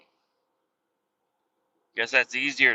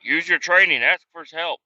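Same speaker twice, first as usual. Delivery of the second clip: mock instructor slogan; 5 semitones higher, 5 dB louder than usual. Mocking a training slogan.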